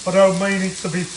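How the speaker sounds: put-on a light, unplanned Birmingham accent. Cooking vlogger slipping into a light Birmingham accent. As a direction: slip into a hint of Birmingham, half by accident. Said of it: "doing a Birmingham accent".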